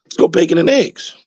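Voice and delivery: chirpy high cartoon chicken pitching the idea; high chicken voice suggesting bacon and eggs. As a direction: squeak it out like an eager chicken. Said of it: "He said".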